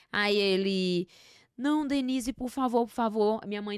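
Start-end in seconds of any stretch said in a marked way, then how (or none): 1.6-3.4 higher-pitched retold begging; mild acted plea; pleading. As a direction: imitate a man begging at the door. Acts father pleading with mother.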